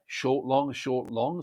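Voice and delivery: short then long, stress on long; iambic beat. Shown as a demonstration. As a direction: tap out the iamb, long stressed. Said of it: "It's in a two-part meter".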